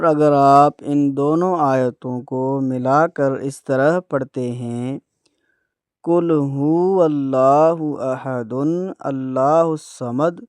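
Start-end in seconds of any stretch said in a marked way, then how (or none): 6.0-10.4 slow chanted Quran recitation, verses run together; slow recitation joining the two verses; joined recitation. Shown as a demonstration. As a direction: recite both verses in one breath, slowly. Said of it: "تو آپ یہ بھی غلط پڑھتے ہیں".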